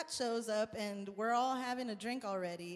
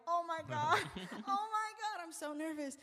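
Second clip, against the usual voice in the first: nervous excitement; 8 semitones higher than usual. Retold or imitated. Artist nervous as a star hears her music. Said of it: "And I'm like".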